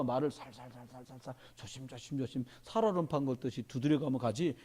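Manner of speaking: hushed, tiptoeing repetition; gently, cautiously. Shown as a demonstration. Preacher easing listeners in so they aren't startled, gently and cautiously. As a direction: tread softly through the repeated words. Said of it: "한꺼번에 말하면 놀랄까 봐".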